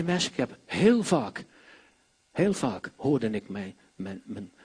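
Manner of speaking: ordinary talk, nothing marked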